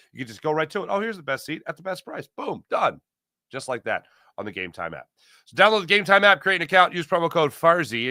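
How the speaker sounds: upbeat sponsor read with promo code. Acted. Host reads a sponsor spot to listeners, upbeat ad read. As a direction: pitch it like a radio ad.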